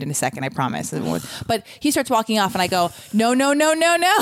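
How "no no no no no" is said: higher, urgent string of protests; retold call to stop him leaving; calling after someone. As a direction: climb in pitch with each protest. Calling after man walking off.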